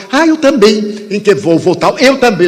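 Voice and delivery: light up with eager delight; delighted stranger. Retold or imitated.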